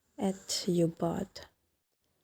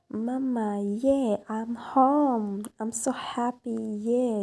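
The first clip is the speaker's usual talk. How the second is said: put-on happy little girl; 4 semitones higher, slower than usual. Little daughter greets mother happily.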